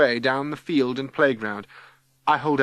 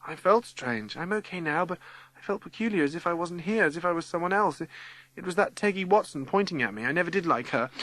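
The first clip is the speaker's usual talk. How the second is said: put-on bewildered girl; 6 semitones higher than usual. A narrator's reading. Lucy explains feeling strange to Sir.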